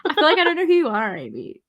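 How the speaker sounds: hammed-up wounded friend, half laughing; mock heartbreak. Teasing Amy over comments about a band, mock hurt laughing sobs.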